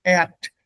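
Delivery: Erd said as "eh-at"; vowelized R. Shown as a demonstration. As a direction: let the R in Erd become a vowel, end on T. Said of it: "Instead, it becomes".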